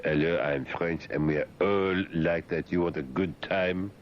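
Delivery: lightly put-on French accent, slowed; French person. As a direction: play a little French person, drawn out. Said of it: "some little French person to say".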